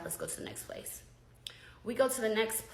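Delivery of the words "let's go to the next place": hushed whisper; quietly brushing it off in a whisper. Retold or imitated. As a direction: whisper it so nobody hears. Calming friend, low aside.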